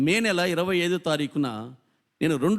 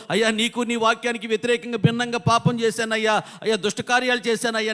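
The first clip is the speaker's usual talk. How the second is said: acted penitent pleading; tearful confession; 4 semitones higher than usual. Preacher voicing a sinner confessing to God, pleading lament. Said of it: "అని ఎప్పుడైతే ఏడుస్తావో".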